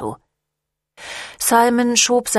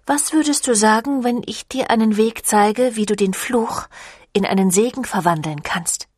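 lightly voiced vampire leader; 3 semitones higher than usual. Camille offers to turn the curse into blessing, lightly voiced vampire leader.

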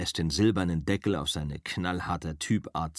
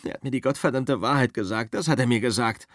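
bitter, fast and spat out; 4 semitones higher, 4 dB louder, faster than usual. Acted. Rick spits the truth at Cliff, bitter and fast. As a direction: spit the words out at your buddy. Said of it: "Rick spuckt es aus".

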